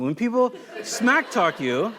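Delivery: slow, chuckling through "smack talk"; amused at his own loose paraphrase; laughing. Shown as a demonstration. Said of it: "That's not King James Version".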